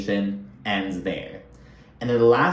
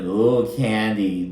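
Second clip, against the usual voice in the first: teasing ooh; much slower than usual. Real, not acted. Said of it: "And I'm like".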